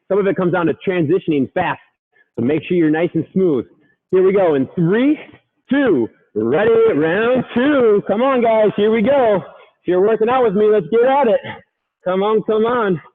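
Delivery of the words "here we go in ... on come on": pumped-up coaching. Real, not acted. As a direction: fire up the class. Coach hyping a workout round.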